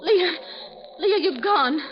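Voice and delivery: frightened call. Acted. Blind woman calls into silence.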